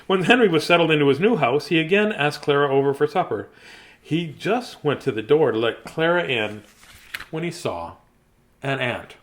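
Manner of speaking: bright, lifted storybook read; animated storybook narration; reading to children. Acted. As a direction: read it out like a picture book for kids. Resumes reading the book.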